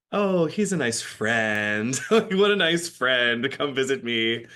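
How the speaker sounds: slow, drawn-out ironic tone; sarcastic. Retold or imitated. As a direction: drag it out, dripping with irony. Sarcastic about his "friend" visits.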